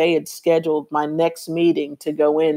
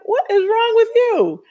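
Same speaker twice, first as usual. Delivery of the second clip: much higher, exasperated; irritated demand. Retold or imitated. Irritated at the friend who finally answers. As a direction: snap it at your closest friend. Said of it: "I was a little irritated with her".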